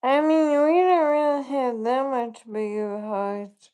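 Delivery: muffled behind a hand; talking through your hand; hand over mouth. Real, not acted. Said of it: "You gotta move your hand away from your mouth".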